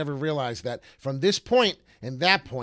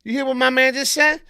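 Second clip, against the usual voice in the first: high, very loud holler; loud call-out; 12 semitones higher, 12 dB louder than usual. Real, not acted. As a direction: call it out to the whole audience. Calls out after the clip.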